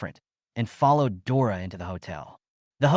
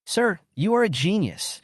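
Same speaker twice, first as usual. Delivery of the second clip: exclaimed sincerely, pitched higher; sincere exclamation; 8 semitones higher than usual. A narrator's reading. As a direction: burst out in honest admiration. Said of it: "she exclaimed sincerely".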